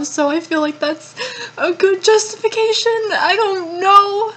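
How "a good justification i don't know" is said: tearful voice breaking; fighting back tears on the words; crying. Real, not acted.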